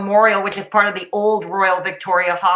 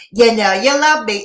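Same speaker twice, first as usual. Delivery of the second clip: delighted hushed society gossip; teasing gossip narrator sign-off; Gossip Girl tone; 5 dB louder than usual. Shown as a demonstration. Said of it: "my perfect Gossip Girl tone".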